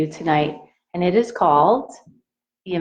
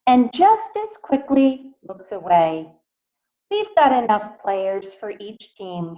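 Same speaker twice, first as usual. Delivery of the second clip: gentle picture-book read-aloud voice; reading to children; slower than usual. A narrator's reading. Teacher reading a picture book to her class, in a gentle read-aloud voice. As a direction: read it out to the little ones, asking.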